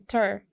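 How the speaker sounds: "ter" set apart as the last syllable. Shown as a demonstration. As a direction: say "ter" alone, as a piece of computer. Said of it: "is one syllable". ("ter" को अलग syllable बोलें)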